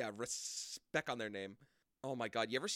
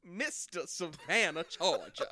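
put-on Savannah accent; 3 semitones higher, 4 dB louder, slower than usual. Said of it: "That's my Savannah accent".

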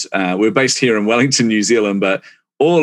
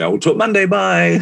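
hurried goodbye; 11 semitones higher than usual. Retold or imitated. Hurriedly hanging up on screaming co-founders.

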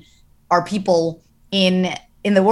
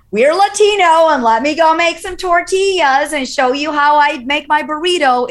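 higher, louder hammed-up Latina sitcom voice; mock stereotype Latina; 8 semitones higher, 4 dB louder than usual. Mocking the stereotyped Latino family show, hammed-up and loud. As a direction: overplay the cliché Latino mom.

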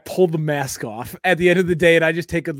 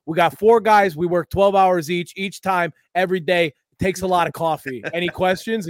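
warehouse guy; 3 semitones higher, 4 dB louder than usual. Retold or imitated. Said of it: "Jim comes out and just goes".

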